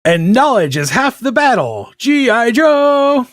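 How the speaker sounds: big slow announcer tag, high on the name; cartoon announcer. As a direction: sell the slogan like an eighties ad voice. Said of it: "They were like".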